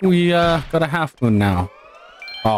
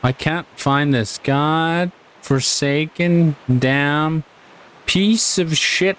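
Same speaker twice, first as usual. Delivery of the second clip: slow, exasperated grumbling; annoyed; 3 semitones higher, much slower than usual. Real, not acted. Gamer fed up with hunting for a hidden squid, annoyed. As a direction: curse it slowly, word by word. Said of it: "this is so annoying".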